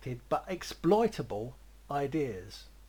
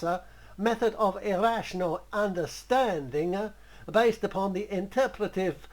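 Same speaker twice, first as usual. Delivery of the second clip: a light put-on foreign accent, a touch louder and higher; a hint of a foreign accent for a grand art theory; Salvador Dali accent; 3 semitones higher, 3 dB louder than usual. Retelling how the painter explained his work, lightly accented. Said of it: "I'm going to give him that accent".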